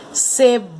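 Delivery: "Cebola" called out with a long held "bo"; calling the word. Shown as a demonstration. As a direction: call "Cebola" like a name, stretching the middle syllable. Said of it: "nós vamos precisar chamá-las".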